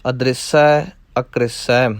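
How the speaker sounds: ਅਦ੍ਰਿਸੈ, r sounded clearly after d; ਅਦ੍ਰਿਸੈ ਵਿੱਚ ਰਾਰੇ ਨੂੰ ਸਿਹਾਰੀ; ਅਦ੍ਰਿਸੈ with r carrying sihari. Shown as a demonstration. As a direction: say ਅਦ੍ਰਿਸੈ as a-dri-sai, the r with short i. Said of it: "ਰਾਰੇ ਨੂੰ ਸਿਹਾਰੀ ਲਾਉਣੀ ਹੈ".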